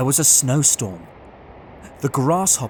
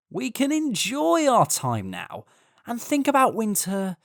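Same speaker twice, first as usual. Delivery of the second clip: lightly voiced, higher, breezy grasshopper; carefree grasshopper; 5 semitones higher than usual. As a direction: brush off the ant's worries casually. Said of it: "The grasshopper laughed at him and said".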